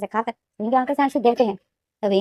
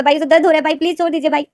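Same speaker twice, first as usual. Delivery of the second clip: higher, tearful begging to let go; desperate weepy pleading; crying plea; 5 semitones higher, 3 dB louder than usual. A narrator's reading. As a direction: plead through tears with a big brother. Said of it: "तो लेनदेन जो यही बोलता".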